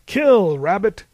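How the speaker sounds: loud, high-pitched monster order; barked command. A narrator's reading. Cyclops sets his killer rabbit on the lambs, shouted command. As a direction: bark it like an attack order. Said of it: "he commanded".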